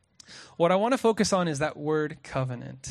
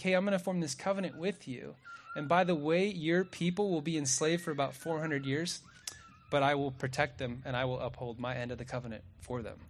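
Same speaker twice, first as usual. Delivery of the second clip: softer, a reassuring father's promise; tender fatherly warning; 5 dB quieter than usual. Retold or imitated. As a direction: ease into it gently, like a caring father. God gently warns Abram ahead.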